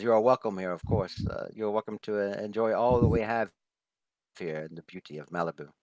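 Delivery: gracious hostess with a light smile; pleasantly welcoming. Acted. Hostess welcomes Nikolai and Peregrine to Malibu, pleasant. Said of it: "she smiles very pleasantly and says".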